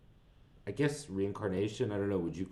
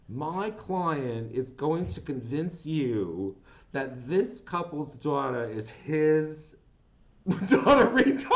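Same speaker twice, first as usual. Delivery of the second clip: slow, lightly voiced New York Jewish lawyer; a touch of a New York Jewish attorney pleading to the jury; mild New York Jewish accent, slowed down; 4 semitones higher, 5 dB louder, slower than usual. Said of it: "I really, really liked your accent you just did".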